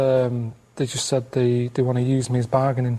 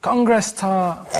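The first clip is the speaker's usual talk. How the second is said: slow code word; 4 semitones higher, much slower than usual. Pretend. Playing the kidnapped caller.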